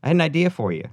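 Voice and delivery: high, loud, eager mock pitch; pretend phone pitch. Pretend phone call to Macaulay.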